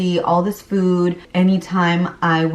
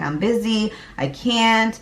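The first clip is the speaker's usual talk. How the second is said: dismissive brush-off; 4 semitones higher than usual. Retold or imitated. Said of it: "I'd be like".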